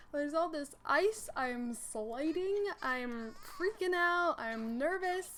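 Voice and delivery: imitating a distressed wail, words stretched out; retold panic. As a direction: draw out each complaint in mock distress. Retold panicked outburst to dad.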